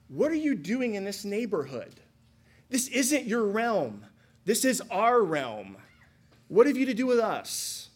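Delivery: the demon guarding its realm, indignant. Acted. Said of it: "His opening line reads more like".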